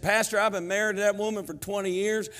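loud, high Southern knucklehead husband; indignant Southern husband, hammed up; southern accent. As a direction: bluster in a Southern accent, building to a shout. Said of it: "How come I get in this southern accent".

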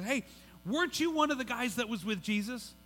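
lightly voiced little girl asking. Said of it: "a little girl comes up".

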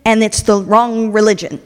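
loud complaining accusation; mock-indignant slave owners before the leaders. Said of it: "you know what they say".

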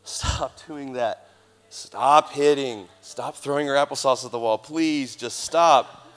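slow, pleading parent scolding; exasperated parent. Retold or imitated. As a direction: scold the kids, tired and pleading.

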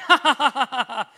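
awkward loud laugh breaking silence; random laughter. Retold or imitated. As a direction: blurt out a laugh into a silent room. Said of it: "cure awkward silence with just random laughter".

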